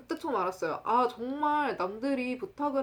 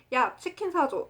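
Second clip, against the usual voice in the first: higher-pitched imitation of a demanding friend; 조르는 친구 흉내; 6 semitones higher, 3 dB louder than usual. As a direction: call out a sudden pushy request. 친구의 조르는 말 흉내. (친구가 갑자기 조르듯 높게)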